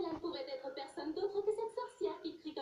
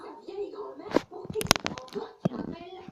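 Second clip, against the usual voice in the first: outraged shout; 8 dB louder than usual. Acted. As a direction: bristle at being called old, then explode. Offended by "old grandmother" remark.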